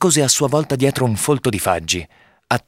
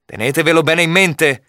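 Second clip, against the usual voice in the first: higher-pitched, firm warning; calm and firm; 6 semitones higher than usual. A narrator's reading. Robin retorting to the knight, calm and firm. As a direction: deliver the warning with controlled emphasis. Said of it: "ribatté Robin con calma e fermezza".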